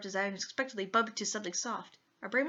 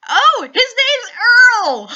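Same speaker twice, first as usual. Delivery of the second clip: laughing; 12 semitones higher, 18 dB louder, slower than usual. Real, not acted. Laughing at the character's name.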